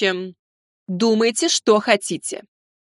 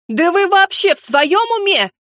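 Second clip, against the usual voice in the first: screaming; 8 semitones higher than usual. A narrator's reading. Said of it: "закричала мама".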